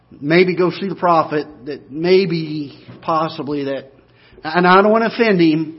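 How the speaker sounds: hesitant, halting mock maid; timid hedging. Preacher imitates a timid maid hedging to Naaman's wife, hesitant. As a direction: hem and haw, afraid to offend. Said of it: "She doesn't say".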